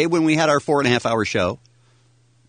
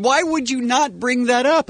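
retold question; 11 semitones higher than usual. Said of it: "So I said".

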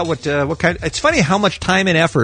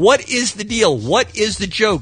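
higher, mock-pleading email read; put-on reading voice; 5 semitones higher than usual. Host reading a listener's complaint to Lisa, put-on voice. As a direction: read it out with exaggerated exasperation. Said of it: "Why am I talking like this?".

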